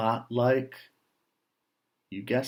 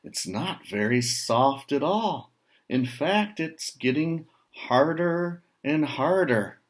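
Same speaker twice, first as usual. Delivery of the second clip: worried pig; 5 semitones higher, 3 dB louder than usual. Acted. Pig alarmed as cement hardens.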